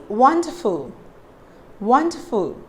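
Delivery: "wonderful" with lips rounded as in a whistle. Shown as a demonstration. Teacher shows the W sound, lips rounded. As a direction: open "wonderful" with pursed lips. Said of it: "That is how you have to pronounce all the W words".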